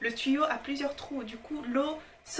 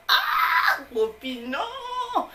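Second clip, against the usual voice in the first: high shout, then a firm no; shouting exclamation; 12 semitones higher, 6 dB louder, much slower than usual. Real, not acted. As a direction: cry out in protest. Exclaiming at a friend.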